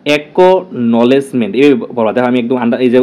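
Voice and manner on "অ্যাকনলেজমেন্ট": অ্যাকনলেজমেন্ট said very slowly, syllable by syllable; broken into syllables. Shown as a demonstration. Teacher showing students how to say the word, very slow syllables. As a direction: pull অ্যাকনলেজমেন্ট apart slowly, one syllable at a time. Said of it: "আমি উচ্চারণটা একদম ভেঙে দিছি".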